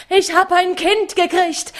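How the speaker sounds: "hab" punched, high joyful cry; joyful shout. A narrator's reading. Mattes tells his robbers of his newborn, stressing "hab", high and loud. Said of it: "schrie dabei wie närrisch".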